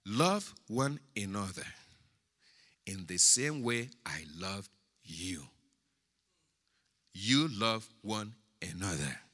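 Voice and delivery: measured phrases with long pauses, swelling midway then settling; solemn scripture reading. Acted. Preacher reading Jesus' commandment to the church, solemn scripture reading.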